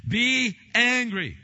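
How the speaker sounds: loud, high proclamation; preacher shouting Be angry; booming command. Acted. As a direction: thunder out the command.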